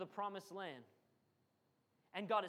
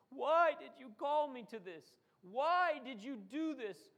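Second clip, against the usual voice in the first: complaining to God; 4 semitones higher, 3 dB louder than usual. Retold or imitated. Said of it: "we start talking like the Israelites".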